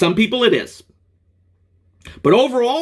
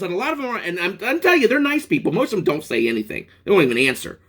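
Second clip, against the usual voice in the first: ordinary talk, nothing marked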